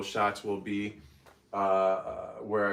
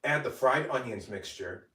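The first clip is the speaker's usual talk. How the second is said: bright, measured cooking-video narration; voiceover read; 3 semitones lower than usual. Acted. Creator reading steps for her cooking video, upbeat voiceover. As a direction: read each step for the recipe voiceover.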